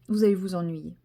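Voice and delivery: usual speaking voice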